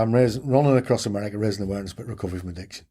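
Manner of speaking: rattled off fast, trailing into a mumble; bored recital, no life in it at all; dull monotone. Retold or imitated. To the cafe cook, a worn-out dull fast recital. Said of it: "And I said it that dull".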